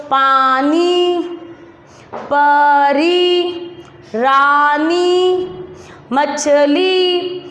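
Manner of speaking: slow chant, every syllable held long; repeat-after-me drill. Shown as a demonstration. Teacher leading pupils to repeat along, slow and drawn-out. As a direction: draw out each word syllable by syllable. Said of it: "मैं साथ साथ बोलो".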